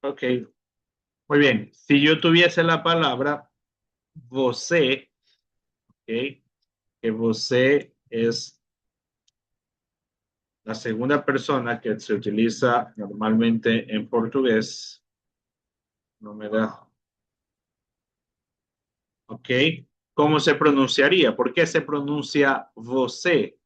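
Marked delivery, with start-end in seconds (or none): 4.1-5.1 você ending on a clear Spanish-like E; final E as E. Shown as a demonstration. Teacher showing students a Portuguese word, você with final E sound. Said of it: "Se pronuncia você con la E". 22.8-23.6 você with the ê said as a full E; final E as E. Shown as a demonstration. Teacher explaining the accented vowel to students, você ending in E. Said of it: "Se pronuncia você con la E".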